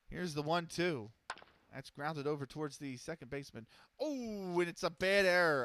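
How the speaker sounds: steady announcer's call of each pitch; play-by-play. Acted. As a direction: call the game like a radio announcer. Back to calling the game.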